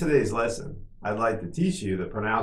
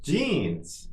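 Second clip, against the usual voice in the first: somewhat higher, shorter take; quicker model; 4 semitones higher than usual. Shown as a demonstration. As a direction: say it a little quicker, pitch lifted. Teacher models word for repetition.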